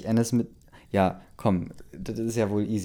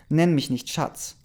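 higher, drawn-out indignant retort; offended partner, pitched up; indignant rebuff; 6 semitones higher, slower than usual. A narrator's reading. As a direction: read it as a slow, cross rebuff. Hurt woman rebuffs her partner.

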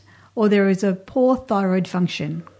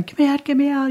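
retold panic; 7 semitones higher, faster than usual. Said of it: "started to cry and almost going".

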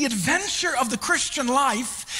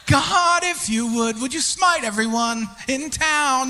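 mock vengeful prayer. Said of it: "'Cause I'm like".

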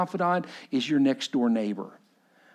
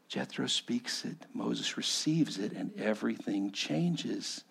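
hushed; 7 dB quieter, slower than usual. Acted. Quiet climax of story.

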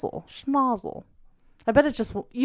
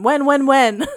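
laughing demand; 4 dB louder, slower than usual. Real, not acted. Teasing demand while laughing.

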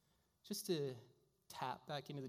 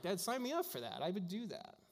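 "Dad" jumps up high, keen and eager; 5 semitones higher than usual. Retold or imitated. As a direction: gush like a kid begging to join. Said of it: "I'm like".

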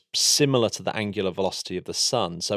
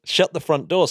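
higher, mock-amazed echo; echoed astonishment; 6 semitones higher, 4 dB louder than usual. Host echoing the co-host's disbelief, mock-amazed. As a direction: throw it back with a lift.

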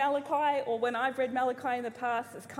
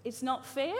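put-on whiny child; 3 semitones higher than usual. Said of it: "the very best one".

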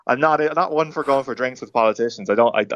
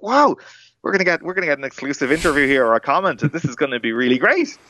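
retold excitement; 5 semitones higher than usual. Excited about exclusive interview chance.

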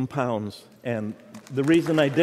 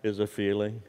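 voice of the Lord; 7 semitones lower, slower than usual. Retold or imitated. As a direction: hush it like the Lord speaking. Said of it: "I heard the voice of the Lord speak to me".

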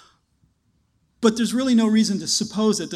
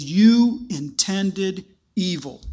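blunt accusation; 4 dB louder, much slower than usual. Acted. Joseph, no pulling punches.

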